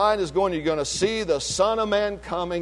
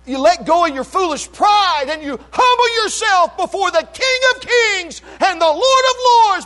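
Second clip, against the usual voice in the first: high, driving preacher's proclamation; full-force preaching; 9 semitones higher, 4 dB louder than usual. Real, not acted. Preacher warning of the coming upheaval, full-force preaching. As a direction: proclaim it to the whole church.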